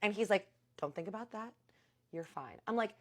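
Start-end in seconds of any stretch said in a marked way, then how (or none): 0.8-2.6 softly imitated soothing caretaker; calm reassurance. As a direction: gently talk a friend down. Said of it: "listening to his calm voice".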